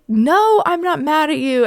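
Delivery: high-pitched, emphatic reassurance; exaggerated motherly denial; imitated mother. Mother answering the crying child.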